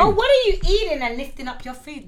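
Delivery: lightly voiced nosy coworker; a hint of a prying colleague; mock nosy coworker. Mimicking coworker at work.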